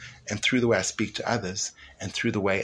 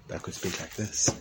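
softer, less harsh texture; gently hushed demonstration; softened tone; 3 semitones lower, 8 dB quieter than usual. Shown as a demonstration. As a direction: lower the volume and take the harshness out. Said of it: "reduce a little bit of the harshness of my tone".

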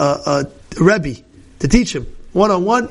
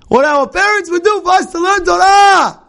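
much higher and louder, ringing climax on Torah; fiery closing cry from the pulpit; preaching shout; 11 semitones higher, 4 dB louder than usual. Shown as a demonstration. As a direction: lift it into a full-voiced cry to the room. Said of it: "This is what our parents would do".

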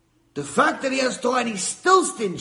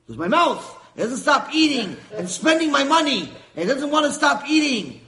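higher, louder indignant complaint; stingy husband outraged at his own mouth; aggrieved husband; 6 semitones higher, 5 dB louder than usual. Acted. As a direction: protest about your own mouth, worked up.

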